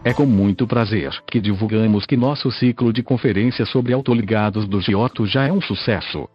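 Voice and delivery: robotic synthesized text-to-speech voice. Real, not acted. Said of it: "falo através desta voz sintetizada". (voz sintetizada de computador antiga)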